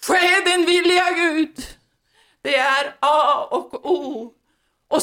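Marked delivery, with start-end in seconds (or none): 0.1-1.7 higher, emphatic call to God; crying out to God. Acted. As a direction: call it out as a short prayer. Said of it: "Vi får ropa".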